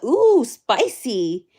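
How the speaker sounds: slow stretched ooh spicy; drawn-out ooh spicy. Retold or imitated. Streamer reads her own chat comment, slow and teasing.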